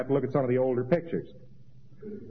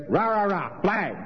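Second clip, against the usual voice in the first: mock cheer; 7 semitones higher, slower than usual. Mocking patriotic cheering.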